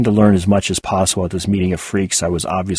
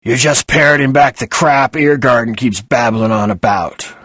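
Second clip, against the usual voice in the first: new voice; 4 semitones higher, 6 dB louder than usual. Acted. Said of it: "A new voice entered the fray".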